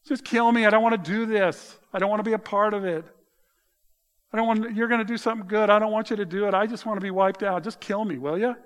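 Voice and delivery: a prophet's anguished, desperate cry; despairing plea. Acted. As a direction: beg God to end it all. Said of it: "can you feel the despair?".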